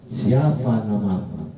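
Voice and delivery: "Siapa namamu" with the pitch dropping on "namamu"; falling question tune. Shown as a demonstration. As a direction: ask "Siapa namamu" and let the end sink. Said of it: "di akhir kalimat turun".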